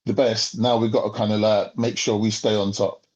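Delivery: smug superpower. Retold or imitated. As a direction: speak like a power guarding its top spot. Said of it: "They're like".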